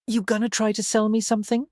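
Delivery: put-on Texan accent with dropped G's; heavy Texas accent. A narrator's reading. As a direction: ask it like a Texan businessman. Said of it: "He had a heavy Texas accent".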